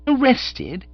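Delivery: astonished echo. Acted. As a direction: repeat it in disbelief. Bertie echoes in disbelief.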